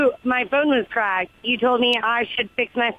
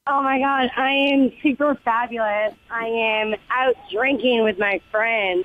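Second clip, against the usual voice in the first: tipsy. Real, not acted. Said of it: "you sound like you're out drinking".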